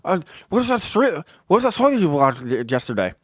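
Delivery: high-pitched mocking buddy voice; Fonzie impression. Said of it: "this is how he talks".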